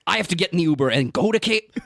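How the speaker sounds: baffled out-of-touch guy. Retold or imitated. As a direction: marvel at a modern thing you don't understand. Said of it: "Every time he talks, he's like".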